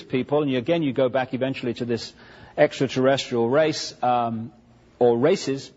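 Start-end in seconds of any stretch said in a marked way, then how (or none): 5.0-5.7 "or races" with the weight on "races"; emphasis on RACES. Real, not acted. Lecturer correcting himself to the plural, stress on "races". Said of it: "emphasis on the races".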